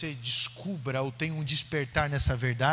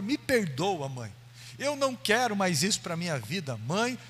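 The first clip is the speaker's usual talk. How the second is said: rising, begging voice, repeating please; a caught boy begging his mother, half in tears; pleading son; 2 semitones higher than usual. Retold or imitated. Caught son begging his mother, pleading and rising.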